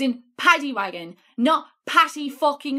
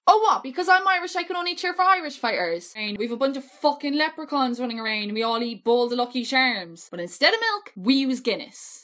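put-on Irish accent. Mocking the Irish fans, in a put-on Irish accent. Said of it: "How is my Irish accent when I do it".

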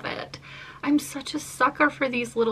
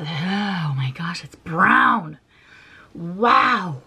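whispered, awed surprise; surprised whisper; 2 semitones lower, much slower than usual. Real, not acted. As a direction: hush it like a secret discovery. Surprised by brown fragrance.

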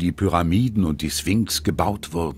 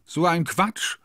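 dismissive interjection; 11 semitones higher than usual. A narrator's reading. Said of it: "ruft Sophie dazwischen".

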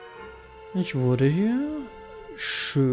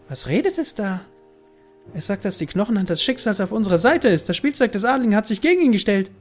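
lightly voiced character; 6 semitones higher, faster than usual. Another character reacts.

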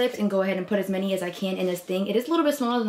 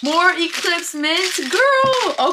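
excited squeal; 8 semitones higher, much slower than usual. Real, not acted. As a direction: squeal the word out in delight. Finding more mint gum.

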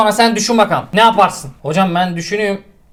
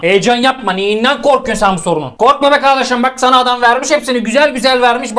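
reassuring; 2 semitones higher than usual. Real, not acted.

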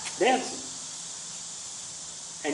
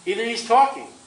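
raised, high mocking cry; 4 semitones higher than usual. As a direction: taunt them as the prophet. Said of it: "Elijah mocked and cried aloud".

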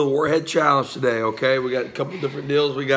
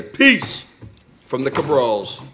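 vlog sign-off; slower than usual. Shown as a demonstration. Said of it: "And say".

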